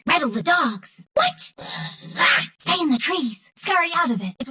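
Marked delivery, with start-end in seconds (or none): 2.2-2.5 short sudden exertion yell; combat cry. Acted. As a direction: let out a brief fighting yelp. Combat cry in game lines.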